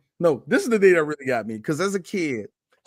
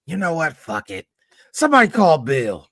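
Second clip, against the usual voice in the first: Whoopi impression; 2 semitones lower than usual. Podcaster imagining Whoopi's movie planning, comic impression. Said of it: "use my best Whoopi voice".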